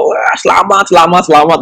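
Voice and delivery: relieved cheer. Retold or imitated. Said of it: "sampai teriak-teriak".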